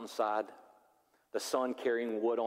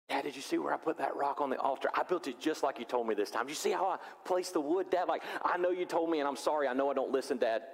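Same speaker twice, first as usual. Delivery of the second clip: put-on eager kid; 2 semitones higher than usual. Isaac voiced eager to dad.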